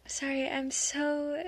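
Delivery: usual speaking voice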